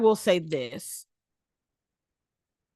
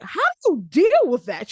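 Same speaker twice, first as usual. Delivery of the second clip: mock friend question; 7 semitones higher, 5 dB louder than usual. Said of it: "she's like".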